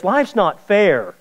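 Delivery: a preacher mocking a complainer's whine; mock whiner. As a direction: whine it like someone sorry for themselves. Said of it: "they make statements like this".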